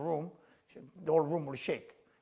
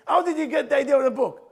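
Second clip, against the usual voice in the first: higher, louder mock-mom question through laughter; laughing imitation of mom; 9 semitones higher, 12 dB louder than usual. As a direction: laugh while mimicking his mother. Retelling mom's question laughing.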